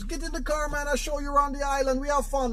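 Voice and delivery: high-pitched Jamaican cab driver; Jamaican accent. Acted. Taxi driver inviting a tourist aboard, Jamaican accent. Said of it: "I'm gonna do my Jamaican accent".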